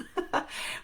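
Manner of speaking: brief amused chuckle; a quick, light laugh to yourself; short laugh. Real, not acted. Host amused by the five or six episodes planned, short laugh.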